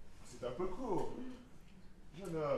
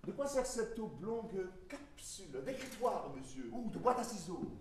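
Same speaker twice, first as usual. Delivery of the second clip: curious. Acted.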